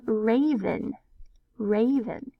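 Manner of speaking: raven with a long A, ray-ven, slowly. Shown as a demonstration. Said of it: "A's making its long sound".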